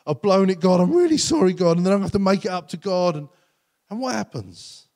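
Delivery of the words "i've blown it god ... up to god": fast, grudging run-through; reluctant grudging plan. Retold or imitated. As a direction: rattle it off like a chore you dread. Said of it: "this is often our attitudes, like".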